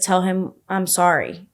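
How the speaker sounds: put-on tearful crying voice. Retelling what a crying spirit voice said to mom: imitating someone crying. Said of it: "She was like".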